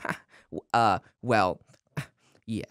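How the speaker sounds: low, soft mumbled reply; imitating Frank. Retelling Frank's reply to Homer, low mumbled impression. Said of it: "And Frank goes".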